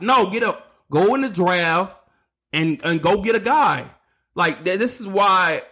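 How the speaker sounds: worked-up rant; frustrated. Real, not acted. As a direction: push them to act, fed up. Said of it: "I'm trying to calm down".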